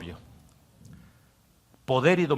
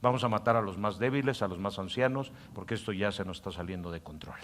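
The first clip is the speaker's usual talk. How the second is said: softer, low-key plotting voice; scheming inner voice; 3 semitones lower, 5 dB quieter than usual. Acted. Pastor voicing the inner voice planning a pandemic, hushed scheming. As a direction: plot it quietly to yourself. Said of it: "El hombre interior dice".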